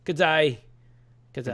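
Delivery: mock Australian G'day, falling; a quick Aussie greeting; Australian accent. Shown as a demonstration. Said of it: "I can't do Australian accent".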